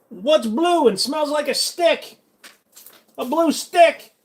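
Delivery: very high, slow mock Asian accent. Shown as a demonstration. Telling a silly riddle in mock Asian accent. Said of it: "do an Asian accent".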